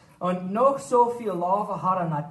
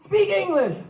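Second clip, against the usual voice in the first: rude runaway retort; 4 semitones higher than usual. Acted. Runaway man snapping at the farmer, ending in a high shout. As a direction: snap back, last words shooting up. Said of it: "der Mann hat ihn nicht ganz bes geantwortet".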